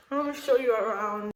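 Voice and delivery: excited calls ringing round bare walls; big hall echo. Real, not acted. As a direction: voice echoing in an empty room. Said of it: "Sorry if I'm echoing".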